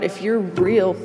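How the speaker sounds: building to a loud, anguished ultimatum; on her knees, shouting at God in despair; desperate prayer to God. Retold or imitated. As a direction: demand that God show up.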